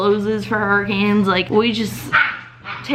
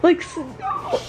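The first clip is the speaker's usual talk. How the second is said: louder, higher excited cry; freaking out; 5 semitones higher, 3 dB louder, slower than usual. Real, not acted. Waking to snow in Louisiana, loud excited disbelief. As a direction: burst out with disbelieving joy. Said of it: "I'm freaking out right now".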